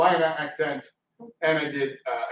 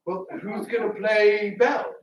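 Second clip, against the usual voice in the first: higher, slower, put-on pleading voice; mock pleading question; 6 semitones higher, 3 dB louder than usual. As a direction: ask it in a raised, drawn-out mock plea. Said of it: "And I ask him".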